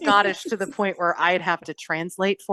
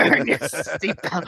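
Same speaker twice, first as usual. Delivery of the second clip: put-on slow, lower, botched Jamaican accent; drawn-out fake Jamaican; accidental Jamaican accent; 5 semitones lower, slower than usual. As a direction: slide into mock Jamaican. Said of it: "that was Jamaican".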